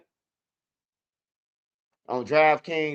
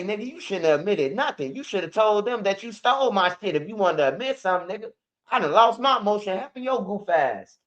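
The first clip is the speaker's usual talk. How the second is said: higher, heated scolding of the cellmate; mild mock anger, higher pitch; retold pissed-off rant; 4 semitones higher than usual. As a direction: chew him out in the retelling. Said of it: "And I was so pissed".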